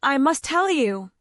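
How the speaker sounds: a hint of tearful sobbing. A narrator's reading. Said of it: "she sobbed".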